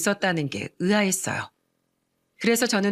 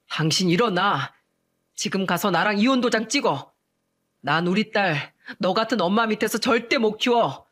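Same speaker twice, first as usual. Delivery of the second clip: angry husband. Acted. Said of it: "화난 목소리로 소리쳤습니다".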